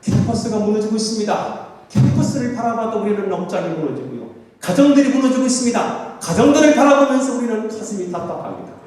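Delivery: pleading sermon delivery; impassioned preaching. Real, not acted. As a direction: preach the collapse with urgency. Preaches with rising urgency.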